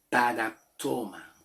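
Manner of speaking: "Paraptoma" drawn out slowly; slow teaching demo of "Paraptoma"; Greek pronunciation. Shown as a demonstration. Teacher repeats the Greek word for falta, slow demonstration. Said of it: "en el griego se pronuncia".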